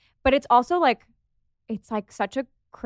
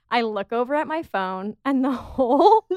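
usual speaking voice

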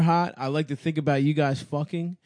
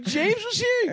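mock Adam. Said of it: "he's like".

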